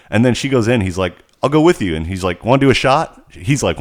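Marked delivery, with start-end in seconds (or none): 1.4-2.0 effeminate guy. Retold or imitated. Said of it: "he's kind of effeminate". 2.5-3.3 effeminate guy. Retold or imitated. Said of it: "he's kind of effeminate".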